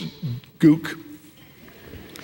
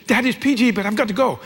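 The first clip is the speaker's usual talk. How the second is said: put-on higher, pleading teen whine fading away; impatient teenage daughter; 4 semitones higher than usual. Daughter begs dad to let her go to friends waiting, higher. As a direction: tug at dad's sleeve to leave.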